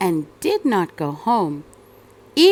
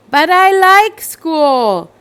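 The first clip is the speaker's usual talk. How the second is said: higher, slow, loud whine; pleading little girl; 7 semitones higher, 9 dB louder, slower than usual. Acted. Cassandra pleading with her parents, high slow whine. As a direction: stretch it like a stubborn child. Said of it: "Cassandra said".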